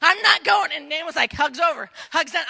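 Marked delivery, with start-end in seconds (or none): 0.0-0.7 put-on higher-pitched, childlike refusal; stubborn Ruth. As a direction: dig in and refuse to budge. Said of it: "Ruth's like".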